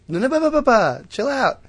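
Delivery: very high, loud stream of shushing syllables; hammed-up uncle calming someone down; mock frantic hushing. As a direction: cut him off in a high babble. Uncle hushing his furious nephew.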